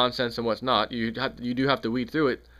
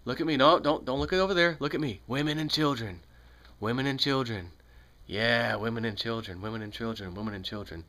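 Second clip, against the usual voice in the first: mock news anchor; 4 semitones lower, 6 dB quieter than usual. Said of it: "It's almost like".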